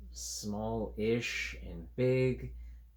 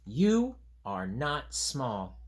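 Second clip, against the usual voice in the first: a lightly voiced fuzzy creature, slow and firm; slow creature line; 3 semitones higher, 4 dB louder, much slower than usual. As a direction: say it slowly, like a stubborn little creature. Creature voice in picture book.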